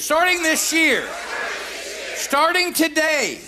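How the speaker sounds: firm, emphatic declaration; like you mean it. Shown as a demonstration. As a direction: declare it with full conviction. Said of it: "say it like you mean it".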